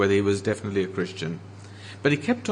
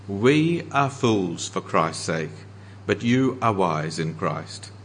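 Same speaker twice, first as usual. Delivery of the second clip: slow, dry sarcasm on each we and you; mock the Corinthians' pride, slowly; sarcastic; 3 semitones lower, slower than usual. Paul rebuking the proud Corinthians, slow and sarcastic. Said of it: "Can you hear the sarcasm?".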